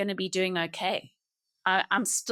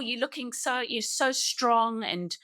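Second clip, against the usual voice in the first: mock gushing, pitched higher; flippant praise; 5 semitones higher than usual. Well-wishers complimenting a grieving mother, flippantly. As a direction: imitate empty compliments, stretching the praise. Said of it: "You don't want the flippant words".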